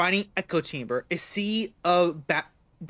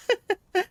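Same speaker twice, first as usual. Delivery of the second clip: falling sheepish chuckle; embarrassed laugh. Real, not acted. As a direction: laugh off the awkwardness. Laugh after apology.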